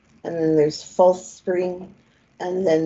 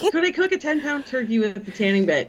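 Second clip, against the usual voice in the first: put-on Irish accent; 2 semitones higher than usual. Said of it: "we went a little Irish there".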